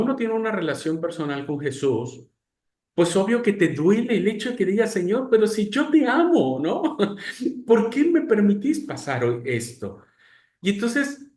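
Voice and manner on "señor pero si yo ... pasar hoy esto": reclamo agudo al Señor, a medio grito; grito dolido a Dios. Acted. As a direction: alza la voz en queja a Dios. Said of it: "viene este grito". (reclamo dolido, casi gritado)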